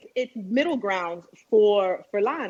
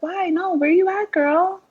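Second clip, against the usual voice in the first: imitated high, sweet girlfriend voice; cute little voice; 10 semitones higher, 6 dB louder, slower than usual. Imitating her friend asking where she is, little cute high voice. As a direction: put on a cute, raised, louder voice. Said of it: "In her little cute voice and shit".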